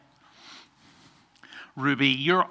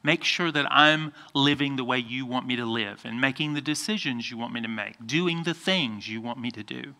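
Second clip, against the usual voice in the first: quieter, lower prayerful voice; 3 semitones lower, 5 dB quieter than usual. Shown as a demonstration. Pastor models for children what to pray, soft prayer. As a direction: model a simple prayer, softly and low. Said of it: "good time to say".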